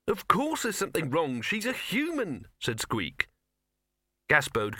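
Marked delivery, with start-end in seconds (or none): 0.1-2.5 high mouse, stating the obvious; scornful mouse. A narrator's reading. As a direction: scoff in a high squeaky pitch. Mouse scoffing.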